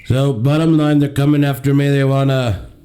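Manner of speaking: lightly voiced Trump, boastful and taunting; a hint of Trump mocking his liberal co-host; Donald Trump impression. Host mocks the liberal co-host as Trump, lightly voiced Trump. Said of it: "It's me, the Donald".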